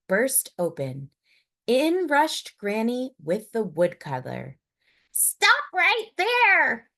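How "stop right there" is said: slow, loud, high command; Granny's yell. Acted. Granny bursting in on the wolf, loud slow yell. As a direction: shout it to stop him. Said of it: "yelled Granny".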